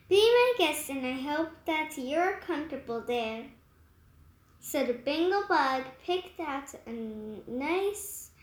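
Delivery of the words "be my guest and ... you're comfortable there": generous host, light and easy; smiling welcome. Acted. Moose invites the bug aboard, smiling. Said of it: "smiled Dywick".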